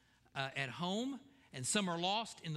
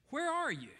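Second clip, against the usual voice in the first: "Where are you?" pitched much higher and louder, falling; high urgent plea; 12 semitones higher, 4 dB louder than usual. Real, not acted. Preacher calling out to his listeners, pitched high and pleading. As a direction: cry out the question far higher.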